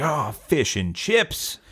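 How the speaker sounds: drawn-out groan of dismay. Acted. British worker finds his lunch, dismayed.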